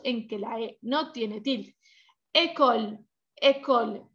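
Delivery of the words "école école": ÉCOLE ending on the L, final E silent. Shown as a demonstration. Teacher modelling for students why it is unaccented, silent final E. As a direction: say "école" as ay-KOL, nothing after the L. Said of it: "esa E no la voy a pronunciar".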